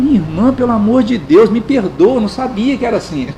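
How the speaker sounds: mock-humble, sarcastic plea; lightly sarcastic sorry to a fellow believer; ironic apology. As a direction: apologize with heavy irony. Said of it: "Bem irônico".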